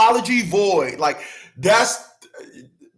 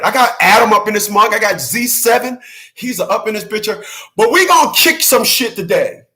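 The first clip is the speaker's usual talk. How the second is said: hype shout-out; 3 semitones higher, 4 dB louder than usual. Real, not acted. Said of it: "hyping viewers in chat".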